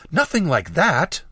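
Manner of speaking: indignant exclamation with sweeping pitch; exclaiming. A narrator's reading. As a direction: protest it firmly, drawing the words out. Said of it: "she exclaimed".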